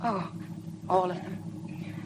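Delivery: breathless whisper. Real, not acted. Shy confession to De Winter.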